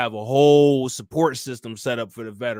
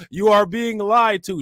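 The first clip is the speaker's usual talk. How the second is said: mock New York accent, higher and louder; 7 semitones higher, 5 dB louder than usual. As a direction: loudspeaker rant in a hammed-up New York accent. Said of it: "She got that accent".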